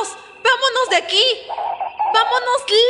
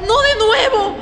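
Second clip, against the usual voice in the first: panicked shouting. Acted. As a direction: shout in terror at the ghosts. Girl panics at her ghosts.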